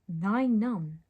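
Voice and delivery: badly faked French accent. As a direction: try an amateurish French accent. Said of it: "how French accents worked".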